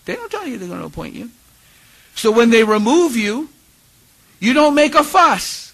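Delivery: quick line, then loud, high Bajan emphasis; put-on Barbadian accent, rising in volume and pitch; attempted Barbadian accent. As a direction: build to a firm point in island accent. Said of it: "my attempt to do an island accent".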